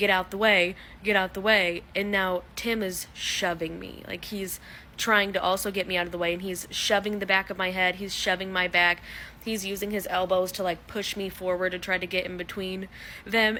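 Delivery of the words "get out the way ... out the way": ordinary talk, nothing marked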